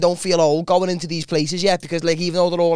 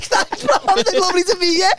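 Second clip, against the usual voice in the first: squeaky mock reply. Mocking own high reply.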